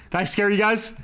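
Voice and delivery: laughing. Real, not acted. Teasing after the jump scare.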